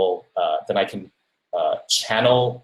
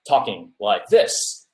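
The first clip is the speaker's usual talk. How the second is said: slow, halting mock-dramatic pauses; Captain Kirk delivery; 2 semitones lower, slower than usual. Shown as a demonstration. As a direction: lightly imitate a stagey starship captain. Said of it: "a Captain Kirk kind of".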